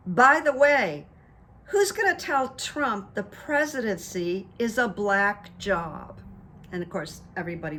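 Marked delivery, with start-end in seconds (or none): 0.1-6.2 louder, slower punchline delivery; quoting the best line. Retold or imitated. Retelling Michelle's best line, a slow emphatic punch. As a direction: land her line with weight. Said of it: "then she said the best line".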